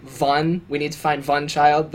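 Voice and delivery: lightly imitated witch accent, V for W; accented witch saying "Vun" for "one". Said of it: "a lot of extra V's in this accent".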